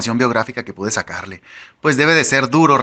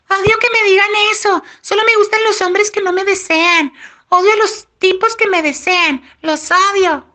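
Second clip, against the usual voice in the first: very high falsetto imitation of a woman; mocking falsetto; 3 dB louder than usual. A narrator's reading. Tyler imitates the woman rejecting compliments, in falsetto. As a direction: squeal it in a put-on falsetto. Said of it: "Tyler pone voz de falsete, imitándola".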